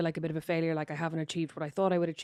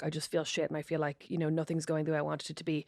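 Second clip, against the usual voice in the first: low, soft, downcast quote; imitated dejection; 3 semitones lower, 6 dB quieter than usual. Upset friend confiding at her door, imitated dejection.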